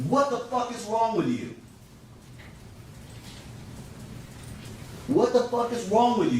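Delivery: shouted high and loud, imitating her; retelling her furious scream out loud; mock scream. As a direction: yell it at him the way she did. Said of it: "she first screams in really loud".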